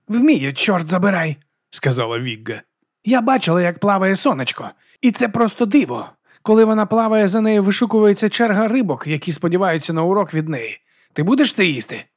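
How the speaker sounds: loud, high brash boast. Acted. Vigga boasts to the monk, loud and high. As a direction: boast it at full volume.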